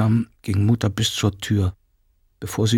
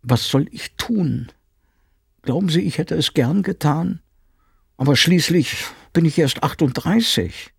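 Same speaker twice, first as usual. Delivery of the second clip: higher, pressed voice of a cornered woman; a housekeeper justifying herself, upset; defensive housekeeper; 7 semitones higher than usual. Acted. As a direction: plead your case toward the wall. Frau Penck defends herself, upset.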